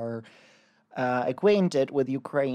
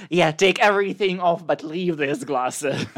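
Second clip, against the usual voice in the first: louder, higher and fast at the start, keen; eager boyfriend voice; 4 semitones higher, 8 dB louder than usual. Retold or imitated. Boyfriend answers Penny's glasses, eager and loud. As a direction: blurt it out eagerly. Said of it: "And he's like".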